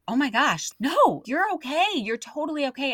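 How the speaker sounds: high, gushing reassurance, retold; compassionate reassurance. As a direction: rush to comfort an upset stranger, lightly acted. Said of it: "overcome with just compassion".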